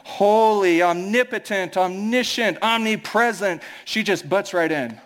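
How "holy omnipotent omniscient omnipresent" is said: drawn-out pompous prayer titles; lightly mock a stiff formal prayer, each title stretched; a hint of a pompous Englishman praying; dragging out formal titles. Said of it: "dragging out all these adjectives".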